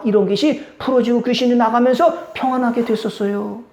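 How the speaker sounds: ordinary talk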